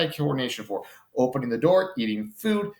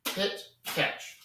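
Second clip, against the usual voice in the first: soft rhythmic cues; 3 semitones higher, 4 dB quieter, much slower than usual. Shown as a demonstration. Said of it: "Just do one hit and catch".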